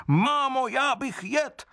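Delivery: put-on very high little-child voice, slow and demanding; a hungry wooden baby whining for food; greedy child crying out. A narrator's reading. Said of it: "křičel Otesánek svou písničku".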